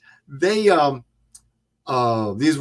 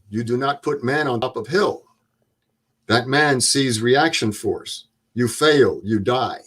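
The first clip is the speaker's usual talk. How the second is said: imitated German instructor laying down the rule; deliberate, stern German-accented lecture. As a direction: scold like a German war veteran. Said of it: "in his German accent".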